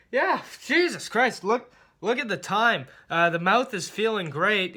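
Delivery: high, nervous escape attempt; flustered, trying to change the subject fast; nervous deflection. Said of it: "I'm like".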